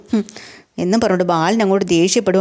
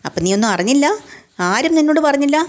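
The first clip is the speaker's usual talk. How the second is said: high, pointed disbelief; husband's mock-incredulous question, voiced high; 7 semitones higher than usual. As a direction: demand to know why nobody told her.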